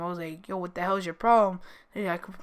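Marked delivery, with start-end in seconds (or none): 0.5-1.6 louder retold telling-off; retold angry question to the friend who confessed. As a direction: snap at the friend in mock anger. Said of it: "I got really angry at him".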